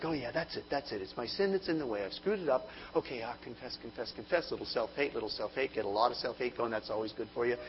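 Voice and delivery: mock anxious self-talk. Anxious self-talk confessing sins.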